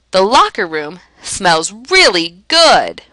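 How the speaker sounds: slow, exaggerated sarcastic praise. Shown as a demonstration. Teacher giving an example of verbal irony, sarcastic. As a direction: lay it on slowly with mock approval. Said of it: "A little bit of sarcasm there".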